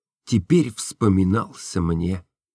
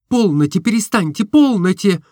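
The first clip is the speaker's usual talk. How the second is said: put-on higher, lighter girlish voice for Nastenka; Nastenka's voice; 10 semitones higher, 4 dB louder than usual. A narrator's reading. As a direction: voice the young woman, tender and open. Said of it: "заговорила она". (голос Настеньки, выше и легче)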